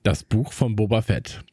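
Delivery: deep dramatic trailer read; movie trailer voice. Shown as a demonstration. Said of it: "meine Trailerstimme".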